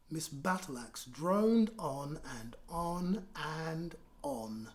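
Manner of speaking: slow, drawn-out read-aloud narration; storytelling. A narrator's reading. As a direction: stretch the words for the kids.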